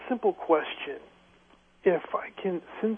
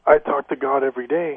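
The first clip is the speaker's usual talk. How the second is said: much louder, same even pitch; louder restatement over the phone; speaking up; 9 dB louder than usual. Real, not acted. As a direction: speak up for a host who can't hear you. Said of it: "Could you speak a little bit louder".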